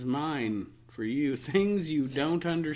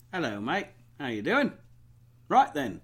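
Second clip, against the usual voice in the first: put-on a light British accent, lifting high on the end; chirpy British greeting, lightly done; 4 semitones higher, 4 dB louder than usual. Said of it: "have a British accent".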